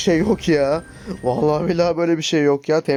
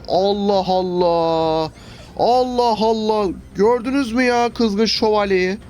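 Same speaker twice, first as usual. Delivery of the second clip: slow, drawn-out Allah Allah; stretched disbelief; 4 semitones higher, much slower than usual. Real, not acted. Gamer baffled by the knight's damage, slow and drawn out. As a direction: stretch each word out in disbelief.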